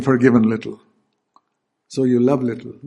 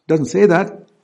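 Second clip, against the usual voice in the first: ordinary talk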